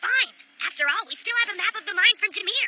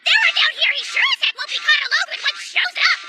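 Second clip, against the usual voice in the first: scared; 6 semitones higher, 4 dB louder than usual. Acted. Afraid of ghosts.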